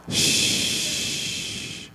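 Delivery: unvoiced shush; hushing. Real, not acted. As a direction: hush the crowd. Hushing the crowd.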